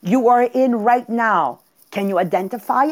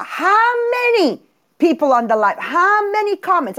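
hammed-up eager demand for numbers; acted eager questioning; 9 semitones higher than usual. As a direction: pitch soaring on each question. Acts out asking her partner eagerly.

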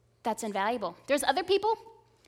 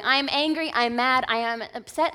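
raging psalmist; 4 dB louder than usual. Retold or imitated. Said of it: "starting off raging".

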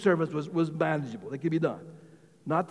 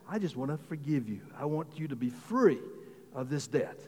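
softer, lower, tender master; mildly hushed, releasing him from the debt; gentle forgiveness; 3 semitones lower, 7 dB quieter than usual. Acted. Master to servant, forgiving the debt, gently.

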